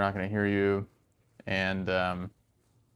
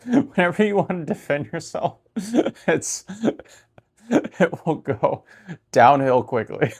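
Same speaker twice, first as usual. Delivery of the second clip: high, louder, laughing through words; 7 semitones higher, 5 dB louder than usual. Real, not acted. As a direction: giggle while admitting it. Laughing at own defensiveness.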